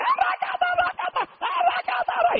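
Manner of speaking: very high, slow babbling in tongues; high mock glossolalia from the woman behind; speaking in tongues. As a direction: mimic the old sister speaking in tongues. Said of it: "la hermana decía".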